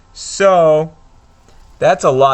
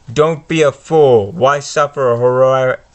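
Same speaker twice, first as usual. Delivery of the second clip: a touch louder, menacing villain read; Voldemort; 4 dB louder than usual. Acted. Voldemort tempting Harry to join him, louder menace. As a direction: tempt and threaten the boy.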